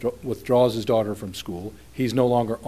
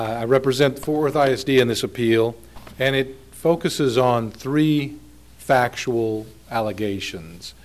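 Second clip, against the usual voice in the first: raised, clearly audible speaking volume; talking louder. Real, not acted. Lawyer repeating his introduction for hard-of-hearing judges, speaking up. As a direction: speak up so the bench can hear. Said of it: "I'll try to talk louder then".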